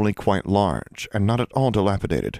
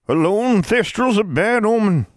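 put-on muttering old witch; 14 semitones higher, 5 dB louder than usual. A narrator's reading. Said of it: "Abigail muttered".

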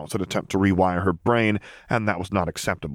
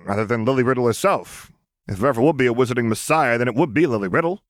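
high, raised ranting voice; grumbling vampire; 8 semitones higher, 3 dB louder than usual. Acted. Vampire griping to the group, raised and annoyed. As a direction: keep griping loudly.

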